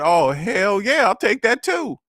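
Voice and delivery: eager yes. Retold or imitated. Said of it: "I said".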